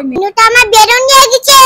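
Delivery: mild tearful complaint; pretend crying. Child complains Minu took the balloon, pretend crying. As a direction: whine it as a play cry. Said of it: "ময়না, তুমি কান্না করে না".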